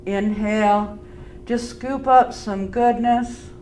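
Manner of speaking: calm, unhurried yoga teacher voice; easy, measured breathing cues with long pauses; guided breathing. Real, not acted. Leads a breathing practice.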